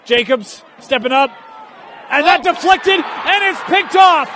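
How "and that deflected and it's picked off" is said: excited play-by-play. Real, not acted. Live call of an interception.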